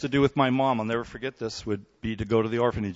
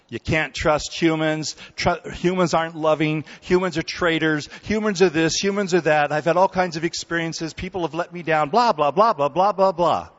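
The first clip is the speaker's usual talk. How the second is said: louder, higher dismissive rattle; mocking cynical voice; 4 semitones higher, 4 dB louder than usual. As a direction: brush it all off with blah blah blah. Mocking voice of inner messages.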